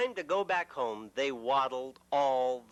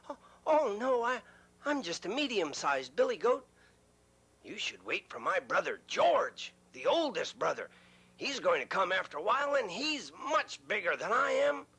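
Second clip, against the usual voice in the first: higher, hurried worried plea; nervous middle goat; 3 semitones higher than usual. Acted. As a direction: plead quickly, a little scared. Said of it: "middle goat pleads".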